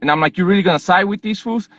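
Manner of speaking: arguing with a border agent, heated; heated retort. Retold or imitated. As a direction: push back at the agent, worked up. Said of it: "So I was fired up".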